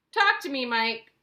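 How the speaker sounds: high, loud plea; desperate cry. A narrator's reading. Mother begs her missing son to speak, crying out loudly. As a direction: beg him to answer. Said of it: "cried Missus T V".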